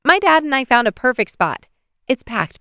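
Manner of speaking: put-on high, eager girl's voice; excited report. Amaya telling Bailey about their spot, excited. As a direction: proudly share the news, excited.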